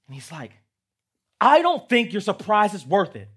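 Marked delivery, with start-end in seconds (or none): 1.4-3.3 high, loud, sulky outburst; angry shout. Shown as a demonstration. Gerald angry at Piggy, high sulky shout. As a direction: stamp your foot on every word. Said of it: "then he gets angry".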